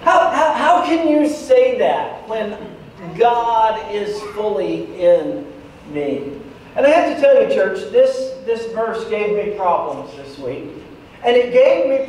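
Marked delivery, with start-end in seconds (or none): 0.0-6.3 exasperated. Acted. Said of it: "when I interpret it for you like that".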